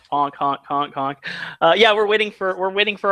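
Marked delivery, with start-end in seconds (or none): 0.1-1.2 clown horn honks. Pretend. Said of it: "circus clowns".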